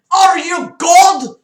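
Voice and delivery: loud, high, slow nervous cry. Acted. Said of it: "John asked nervously".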